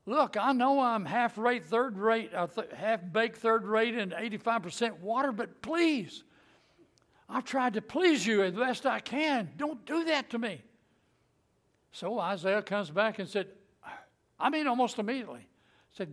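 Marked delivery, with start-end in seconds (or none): 0.1-10.6 raised, pleading voice, a touch of weeping; retold tearful plea. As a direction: beg the Lord, mildly choked up. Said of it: "and he starts crying".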